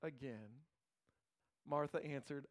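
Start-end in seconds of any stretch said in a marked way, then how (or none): 0.0-0.6 gentle Jesus. Acted. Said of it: "Jesus says to her".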